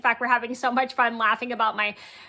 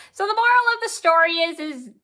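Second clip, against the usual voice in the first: emphatic moral; 4 semitones higher, 3 dB louder than usual. Real, not acted. Wrapping up the story.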